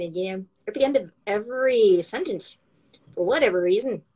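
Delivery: Irish lilt rising at phrase ends; Irish accent. Shown as a demonstration. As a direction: lift each ending in Irish style. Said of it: "The pitch goes up".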